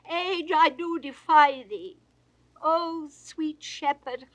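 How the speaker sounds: usual speaking voice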